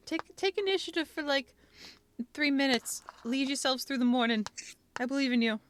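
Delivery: rally the team like a coach; motivational coach. Acted. Motivational speech to players.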